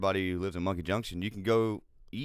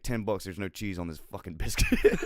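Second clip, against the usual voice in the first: giggling mock bet; laughing through the quote. Telling a podcast cohost about the bet, laughing. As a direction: quote him while cracking up.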